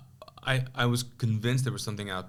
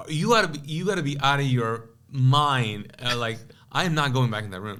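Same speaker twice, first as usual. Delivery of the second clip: heated refusal; 3 semitones higher than usual. Retold or imitated. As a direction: argue back, slowing on out of your mind. Argument over going back.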